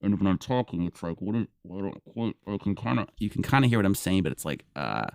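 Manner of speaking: muffled through a hand, mumbled; hand over mouth. Shown as a demonstration. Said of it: "mumbled like this".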